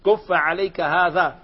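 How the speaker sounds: slow, كف punched with a fall; teacher repeating the key phrase; slow emphatic quote. Shown as a demonstration. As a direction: say كف عليك هذا slowly, pressing كف. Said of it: "علمنا بالإشارة".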